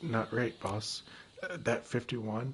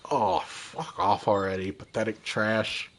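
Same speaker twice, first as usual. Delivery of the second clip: contemptuous snarl; 3 semitones lower, 4 dB louder, slower than usual. Acted. Scammer threatens the student.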